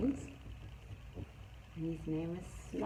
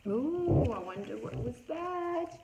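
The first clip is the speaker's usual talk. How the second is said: surprised; 8 semitones higher, 3 dB louder than usual. Acted. Teacher acting alarmed.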